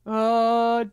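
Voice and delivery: slow, lightly voiced objector; mock accuser. Mimicking the person who objects to the book, mock accusing. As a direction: imitate someone slowly pointing out an offence. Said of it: "not the person going".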